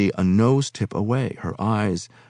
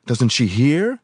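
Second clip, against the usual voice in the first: angry thought; 6 semitones higher, slower than usual. A narrator's reading.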